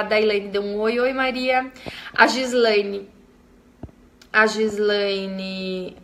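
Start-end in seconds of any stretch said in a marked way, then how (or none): 4.3-6.0 drawn-out, slow rereading of the name; slowly repeated name. Shown as a demonstration. Host rereading a viewer's name in live chat, slowly drawn out. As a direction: stretch Gislaine out syllable by syllable. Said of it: "rereading the name slowly".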